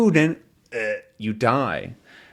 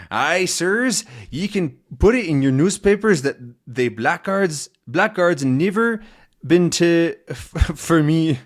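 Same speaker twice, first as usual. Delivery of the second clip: put-on Scottish accent; 5 semitones higher than usual. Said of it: "this guy's dialect and accent".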